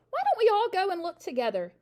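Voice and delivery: high, loud, anxious suggestion; nervous. A narrator's reading. Scared father asking family to come along, nervous. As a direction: talk your way out of going alone.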